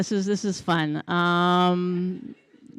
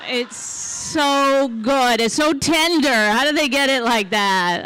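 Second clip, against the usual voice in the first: higher, drawn-out savoring of the words; mock rapture; 4 semitones higher, slower than usual. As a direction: swoon over the taste, slowly.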